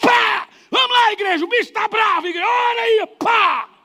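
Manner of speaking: rowdy, very loud yelling, pitched way up high. Retelling how he shouted to the congregation, imitating yelling. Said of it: "E ele gritava".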